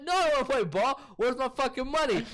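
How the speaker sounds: high-pitched mock angry demand; Zac Efron, angry. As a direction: imitate a fired-up man demanding his cash. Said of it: "came in angry as fuck".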